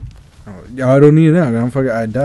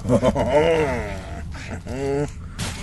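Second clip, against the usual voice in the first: exasperated laugh; 6 dB quieter than usual. Real, not acted. Exasperated reaction to game failure.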